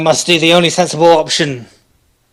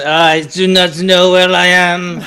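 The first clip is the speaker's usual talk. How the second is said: put-on French accent; 4 semitones higher than usual. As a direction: bluff in a hammy French accent. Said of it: "fake another French accent".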